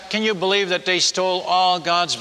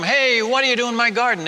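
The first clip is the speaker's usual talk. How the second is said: higher-pitched mild mock yell; re-enacted challenge to trespassers, pitched up; retold yell; 5 semitones higher than usual. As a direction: imitate yelling at garden thieves, without full volume. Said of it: "I'd used to yell at 'em".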